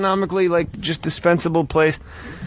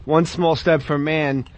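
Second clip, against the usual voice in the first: slow, drawn out; 3 semitones lower, slower than usual. Retold or imitated. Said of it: "he said".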